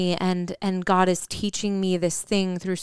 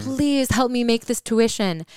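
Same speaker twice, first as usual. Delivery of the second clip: higher, drawn-out plea to God; pleading; 5 semitones higher than usual. Retold or imitated. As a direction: plead slowly, imitating a desperate prayer. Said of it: "I would be pleading with God".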